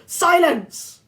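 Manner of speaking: loud high furious snarl. A narrator's reading. Monster snarling at the girl, loud and furious. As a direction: snap it with venom. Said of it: "Medusa snarled".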